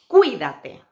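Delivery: cuídate loud and clear on each syllable; emphasized cuídate. Shown as a demonstration. Teacher modelling cuídate for students. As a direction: punch out cuídate for learners.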